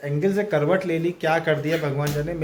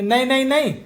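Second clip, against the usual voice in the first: higher, insistent नहीं नहीं नहीं; 6 semitones higher than usual. Real, not acted. Mother warning little Lado off, higher firm नहीं.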